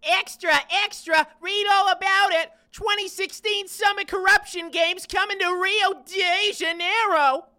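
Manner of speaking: shouted newsboy hawking papers; old-time newsie calling out headlines; rapid old-time reporter. Acted.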